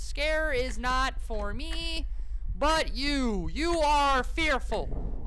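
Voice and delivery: slow, drawn-out proclamation; mock-grand bravado. Player denying fear after screaming, mock-grand bravado. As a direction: stretch the words out grandly.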